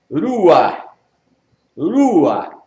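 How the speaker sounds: "Rua" with tapped r and throaty ending; R and guttural demonstration. Shown as a demonstration. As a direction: model "Rua" clearly, breath ending in the throat. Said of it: "da gutural. Do R".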